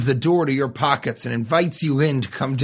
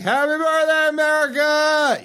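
imitated crowd cheer; 14 semitones higher than usual. Imitating the partygoers answering back, high mock cheer. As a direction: holler back like an excited crowd, stretching the end. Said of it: "they'd all be like".

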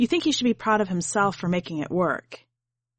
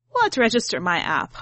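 snapping; 3 semitones higher than usual. Acted. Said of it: "Ahma snaps".

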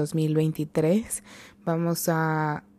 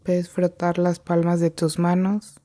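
measured meditation guide with long pauses; guided meditation. Real, not acted. Guide leading listeners to breathe and come to the present, unhurried meditation voice. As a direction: lead them gently into the breath, leaving long silences.

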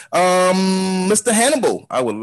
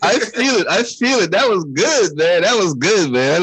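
excited; 5 semitones higher, slower than usual. Real, not acted. Reacting excitedly to the rant.

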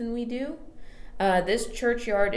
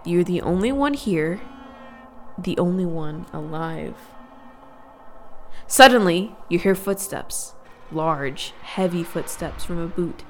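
spooky storytelling. Acted. Spooky scene-setting narration.

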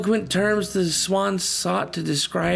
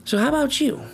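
pointed question; 10 semitones higher, faster than usual. Real, not acted. Preacher's direct challenge.

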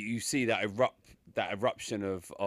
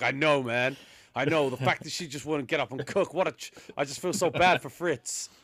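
mock sympathetic fan; 4 semitones higher than usual. Mocking a fan's sympathy.

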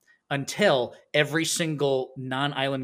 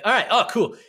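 raised, louder little-critter chatter; gerbil impression; 7 semitones higher, 6 dB louder than usual. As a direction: play an eager little gerbil, pitched up. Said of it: "like, some sort of gerbil".

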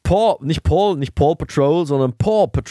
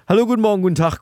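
show opener; 8 semitones higher, much faster than usual. Acted. Opening greeting, high.

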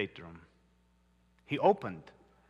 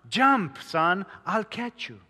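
a father calling up to his son, higher and louder; 4 semitones higher, 3 dB louder than usual. Acted. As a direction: call up to the roof, reaching him. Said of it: "was calling to his son".

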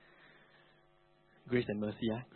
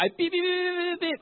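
high-pitched run of mock curses; faster than usual. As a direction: beep out curses in a raised voice. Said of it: "but I talk loud".

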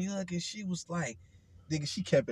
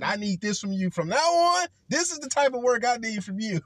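urgent teacher; 7 semitones higher, 7 dB louder than usual. Retold or imitated. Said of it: "She said".

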